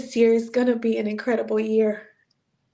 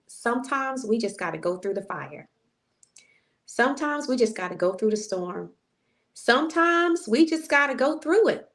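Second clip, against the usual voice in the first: preaching build; 2 semitones higher than usual. Real, not acted.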